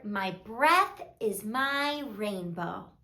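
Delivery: low, soft and slow; hushed self-soothing. A narrator's reading. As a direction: say it gently, as a quiet comfort. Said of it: "He whispered".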